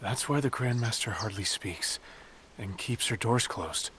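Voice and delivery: measured storytelling voice over music; grave, unhurried storyteller recounting the sect's past; story narration. Acted. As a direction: tell the legend like a chronicle. Tells the sect's history over music.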